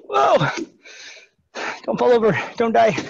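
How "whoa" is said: startled whoa. Real, not acted. Losing balance mid-exercise.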